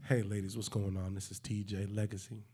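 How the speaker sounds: a hint of smooth seductive host; sexy intro. Host doing a sexy intro for the ladies, lightly seductive. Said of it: "sexy intro again".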